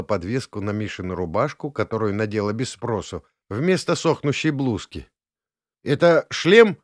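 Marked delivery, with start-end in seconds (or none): 5.8-6.8 higher, louder, strained question; a touch of nerves in the dark; slightly tense. A narrator's reading. Natasha fumbling for the helmet, slightly tense. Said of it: "малость напряжённый голос".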